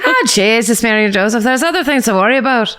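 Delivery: lightly voiced Irish accent, dismissive; a hint of Irish brogue, laughing. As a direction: toss it off like an Irish mammy. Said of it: "Say it in, say it in Irish".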